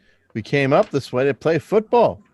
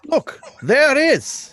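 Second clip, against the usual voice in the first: excited discovery; 5 dB louder, slower than usual. Acted. Boy spots the police box.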